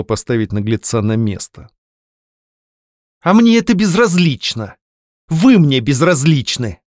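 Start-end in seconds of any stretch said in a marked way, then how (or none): 3.2-6.8 high, cutting reply, slowing down; angry retort. A narrator's reading. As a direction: put him in his place. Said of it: "гневно процедила она".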